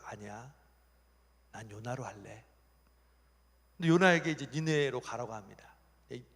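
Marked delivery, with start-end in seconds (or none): 0.0-2.5 low, soft, settled reply; acted calm insistence; calm God. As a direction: quietly overrule the objection. God calmly overrules the objecting angels.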